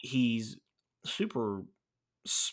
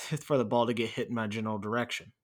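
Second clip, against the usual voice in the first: brushing it off with a light chuckle, quickly; quick joking answer after a small laugh; retold laughing reply; faster than usual. Player deflecting a teammate's question with a joke, lightly laughing. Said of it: "he kinda, like, laughs and he goes".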